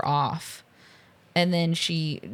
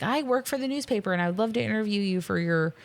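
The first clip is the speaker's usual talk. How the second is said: nerd voice; 3 semitones higher than usual. Retold or imitated. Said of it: "doing it like".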